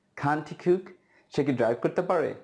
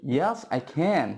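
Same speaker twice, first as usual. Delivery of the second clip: slow model answer; much slower than usual. Shown as a demonstration. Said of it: "হ্যাঁ, আমি দৌড়াতে পারি".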